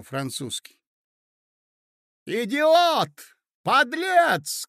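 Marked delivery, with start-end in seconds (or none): 2.3-4.7 loud, very high screamed insults; furious shouting. Acted. Hostess abusing the young man, furious shouting. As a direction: hurl each word as a separate cry. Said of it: "кричала Марья Александровна".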